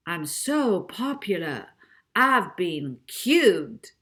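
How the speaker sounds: slow, smug advert voice; a hint of a smarmy TV presenter; smug TV ad man. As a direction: purr it like a slick ad presenter.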